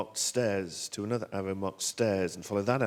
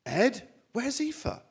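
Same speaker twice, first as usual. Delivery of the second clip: high, loud, drawn-out wife; badly imitated worried wife; bad impression of Holly; 14 semitones higher, 8 dB louder, much slower than usual. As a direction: overdo the wife's voice, slow and high. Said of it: "someone doing a bad impression of Holly".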